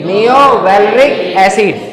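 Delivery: नियो वेलरिक एसिड drawn out slowly; teacher drilling the acid name slowly; slow dictation. Shown as a demonstration. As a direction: say it slowly so the class can copy. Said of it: "क्या बोलेंगे?".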